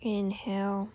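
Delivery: calm meditation guide with long pauses; guided meditation. Real, not acted. Host guiding listeners to tune out noise and breathe, meditative.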